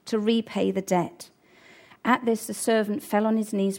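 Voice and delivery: steady storytelling read of the parable; scripture reading. Acted. Preacher reading the parable to his church, measured. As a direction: read the passage aloud to the congregation. Reads Bible story aloud.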